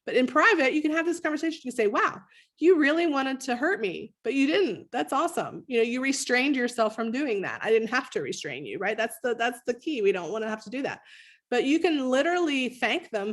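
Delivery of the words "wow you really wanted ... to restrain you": brighter, higher encouraging voice; praising parent. Shown as a demonstration. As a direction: praise the child warmly for holding back. Parent praising restraint, demo.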